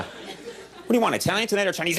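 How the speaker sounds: hammed-up bodybuilder accent; Arnold impression. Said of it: "the most accurate impression anyone does of him".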